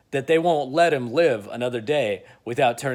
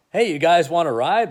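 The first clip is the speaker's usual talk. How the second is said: louder and higher, calling over; 6 semitones higher, 5 dB louder than usual. Retold or imitated. Bruce offering Clark and Lois a ride, calling out. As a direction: hail them across the street.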